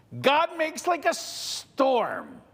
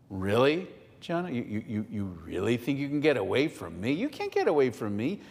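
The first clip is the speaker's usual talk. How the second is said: God scolding; 9 semitones lower, faster than usual. Acted. God confronts Jonah.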